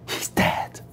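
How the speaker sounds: hushed, voiceless near-whisper; defeated grief. Acted. Mary gives up arguing over her dead brother, defeated grief. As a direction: let the protest collapse into breath.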